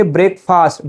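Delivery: "breakfast" as break plus fast; "breakfast" ending in an unreduced fast; wrong breakfast. Shown as a demonstration. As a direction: say "breakfast" slowly with a full fast. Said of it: "you don't have to say".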